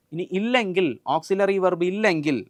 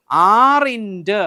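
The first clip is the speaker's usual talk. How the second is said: "are-ിൻ്റെ" stretched out long, louder and higher; emphatic dictation; 4 semitones higher, 8 dB louder than usual. Shown as a demonstration. Teacher dictating the negative of am, emphatic drawn-out "are-ിൻ്റെ". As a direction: draw out "are-ിൻ്റെ" loudly for the class. Teacher drills the answer word.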